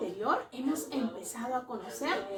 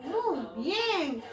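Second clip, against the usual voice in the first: ordinary talk, nothing marked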